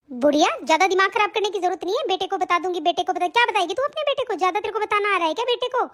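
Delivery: fast mocking sneer. Daughter-in-law mocks the old woman's threat, fast and sneering. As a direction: rattle off the scorn fast.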